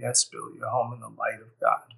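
gentle, soft, very quiet whisper. Retelling a voice heard on arrival in heaven: imitating a soft whisper. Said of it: "I hear a soft whisper in my ear saying".

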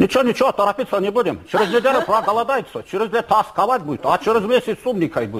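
very high put-on film-style character voice. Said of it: "я лучше спародирую вам".

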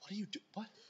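baffled and confused, lost for words, cut off. Retelling a movie scene, quoting the army man: imitating a totally confused man. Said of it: "totally confused".

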